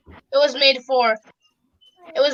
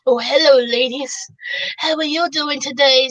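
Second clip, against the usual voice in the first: sexy voice. Acted. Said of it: "says James in a sexy voice".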